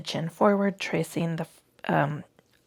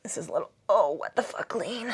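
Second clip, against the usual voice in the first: whisper. Real, not acted. Repeated phrase, whispered.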